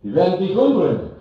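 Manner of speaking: threatening emperor. Acted. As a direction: bluster like a frightened emperor. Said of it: "Er sagt".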